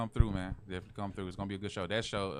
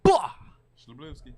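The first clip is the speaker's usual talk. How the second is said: slow, loud, drawn-out sexy voice; 6 semitones higher, 12 dB louder, much slower than usual. Pretend. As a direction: stretch out the name seductively. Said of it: "we're talking in this sexy voice".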